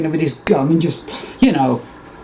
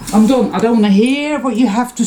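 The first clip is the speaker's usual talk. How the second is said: emphatic; 9 semitones higher, faster than usual. Real, not acted. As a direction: slam the door on it. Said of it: "That's it".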